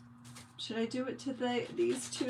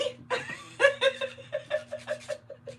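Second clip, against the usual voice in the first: real laugh, bright and high; high burst of laughter. Real, not acted. Host laughing at a viewer's teasing comment, high real laugh.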